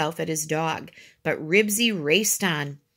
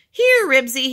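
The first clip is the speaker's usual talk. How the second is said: loud, high dog call; shouted call, pitched up; yelling; 6 semitones higher, 9 dB louder than usual. A narrator's reading. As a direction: yell for your runaway dog. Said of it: "he yelled".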